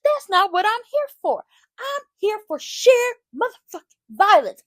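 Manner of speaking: loud, high, fast wrestling promo; retelling Shiloh's promo as a loud, high wrestling-style rant; fired-up promo. Retold or imitated. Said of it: "he really laying into it".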